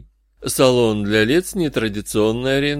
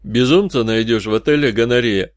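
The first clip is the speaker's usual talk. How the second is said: businesslike. Acted. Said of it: "сообщил оракул деловым тоном".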